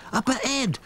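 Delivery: put-on high, French-accented up ahead; French accent, pointing. A narrator's reading. Claude's French voice.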